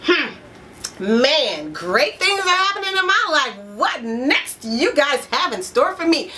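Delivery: positive expectancy. Pretend. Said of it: "So if you're saying".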